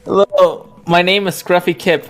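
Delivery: Scruffy Kip. Retold or imitated. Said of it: "Dead was gonna do an impression of me".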